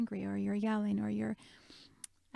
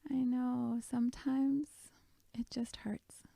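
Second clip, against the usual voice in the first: Sadness; 2 semitones higher, slower than usual. Retold or imitated. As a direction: gently comfort a hurting friend. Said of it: "put her arm around her and just said".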